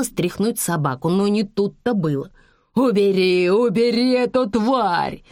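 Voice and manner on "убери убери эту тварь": higher, louder panicked yelp, voice not his own; the bandit shrieks as the dog hangs on; squealing in a strange voice. Acted. Bitten bandit yells at Liza to call off the dog, squealing. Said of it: "не своим голосом визжал бандит".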